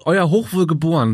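slow, lordly king demanding his title; haughty royal command. Pretend. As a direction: speak like a vain monarch. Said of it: "so sprichst du mich ab heute an".

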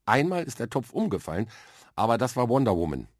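put-on a young boy proudly explaining his superpower; lightly voiced earnest boy. Arthur explains his laser-eye training to Mia, earnest.

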